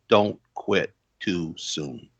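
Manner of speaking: lightly voiced dad, slow and sincere; earnest fatherly advice. Pastor father advising his son at dusk, slow and earnest. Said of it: "he goes".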